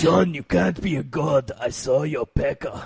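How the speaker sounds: put-on Italian accent, low and quiet. Asked to do the original bit, the speaker delivers it in a put-on Italian accent. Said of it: "That is Italian as shit".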